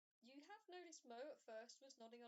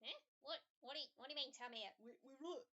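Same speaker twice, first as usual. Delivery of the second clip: wrong voice; 3 semitones higher, 4 dB louder, faster than usual. Acted. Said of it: "Uh, wrong voice".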